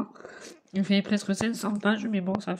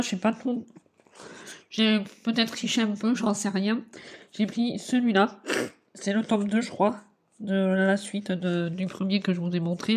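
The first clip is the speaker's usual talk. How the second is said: ordinary talk, nothing marked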